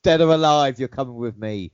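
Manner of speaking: RoboCop. Acted. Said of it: "you don't sound like RoboCop".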